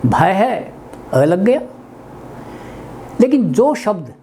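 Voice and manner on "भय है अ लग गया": slow explanation. Shown as a demonstration. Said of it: "अभाव".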